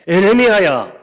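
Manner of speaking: high, loud ringing call of 에레미야야. Acted. God summoning Jeremiah, loud call. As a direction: call out 에레미야야 at full force.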